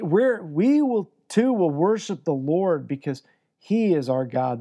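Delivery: stammering, overeager promise with a lifted start; mock the people's rushed pledge; mock eager vow. Pastor mimicking the people's hasty vow, mock eager. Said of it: "the people are like".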